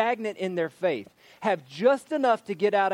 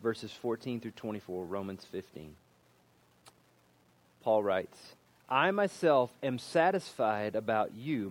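scripture reading; 3 semitones lower than usual. Acted. Reads scripture aloud.

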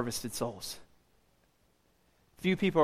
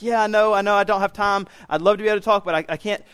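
harried excuse, slightly raised; hurried brush-off; 3 semitones higher, 4 dB louder, faster than usual. Retold or imitated. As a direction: re-enact fobbing someone off while busy. Acted hurried brush-off to stranger.

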